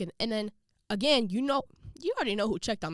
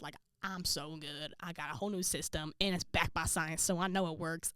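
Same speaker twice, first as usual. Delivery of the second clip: smug confidence; 3 semitones lower, 5 dB quieter than usual. Retold or imitated. Retold smug confidence in her system.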